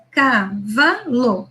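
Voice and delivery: cavalo drawn out slowly, one syllable at a time; syllable-by-syllable reading. Shown as a demonstration. Teacher demonstrating a child's syllable reading, slow. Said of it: "ela se ancora nas sílabas".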